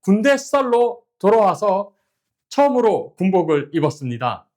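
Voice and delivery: high, slow formal report at attention; korean military style. Acted. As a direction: report like a soldier to his officer. Soldier's formal report to camera.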